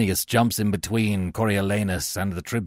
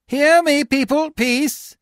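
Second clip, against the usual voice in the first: high, loud appeal to a crowd; calling for attention; 7 dB louder, slower than usual. A narrator's reading. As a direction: hush a crowd by calling over it. Tribune calls crowd to listen.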